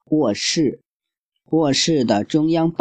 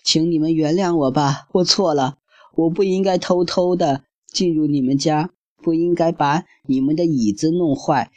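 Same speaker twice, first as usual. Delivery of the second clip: higher, mock-tearful begging girl; tearful pleading; 5 semitones higher than usual. Goldilocks begging the bears, higher mock-tearful plea. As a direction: plead for mercy like a scared girl. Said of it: "只能哭着哀求道".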